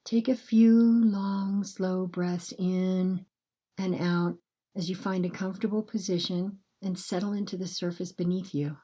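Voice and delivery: calm, unhurried breathing guidance with long pauses; gentle bedtime meditation voice, measured and spacious; guided meditation. Acted.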